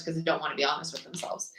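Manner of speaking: a quick whispered aside; whispering. Real, not acted. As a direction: whisper it like a secret. Aside about self-deception.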